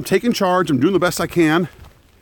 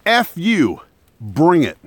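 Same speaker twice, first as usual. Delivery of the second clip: defiant scream; slower than usual. Retold or imitated. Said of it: "I screamed back at them".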